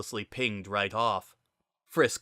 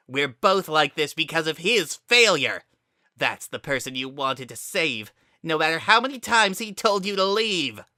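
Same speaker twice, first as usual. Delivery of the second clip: high, loud building rant; a bitter villain blaming his friend; cold fury; 6 semitones higher, 3 dB louder than usual. Acted. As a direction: lash out with growing anger. Kara rants at Frisk.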